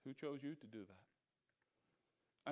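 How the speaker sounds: low, slow, quiet devil's taunt; mocking devil.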